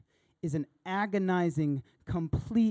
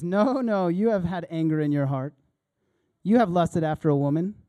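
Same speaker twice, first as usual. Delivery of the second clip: forceful rebuke; 7 dB louder than usual. Acted. Jesus rebukes the listeners, loud and forceful. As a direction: correct them hard and loud.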